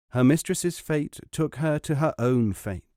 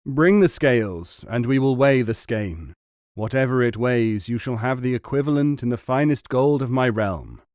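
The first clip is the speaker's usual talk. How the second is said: louder royal order; commanding king; 4 dB louder than usual. Acted. King orders scales brought for the silk, commanding. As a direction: call for the scales grandly.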